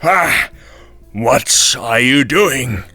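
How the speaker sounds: furious devil shouting in pain; angry devil cry. Acted. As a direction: snap at her for waking you. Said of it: "cried the devil angrily".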